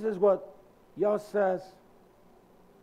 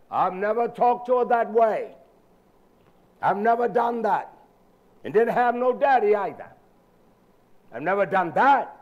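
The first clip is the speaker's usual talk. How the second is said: emphatic preaching; 5 dB louder than usual. Real, not acted.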